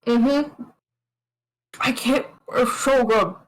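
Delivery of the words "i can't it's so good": mouth full. Acted. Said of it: "don't talk with your mouth full".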